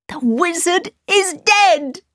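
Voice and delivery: high, slow exclaim; cry out. A narrator's reading. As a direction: cry it out in shock. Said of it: "he cried".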